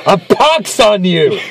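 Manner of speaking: slow, grand theatrical curse; hammed-up old-timey curse; arch witty period comedy.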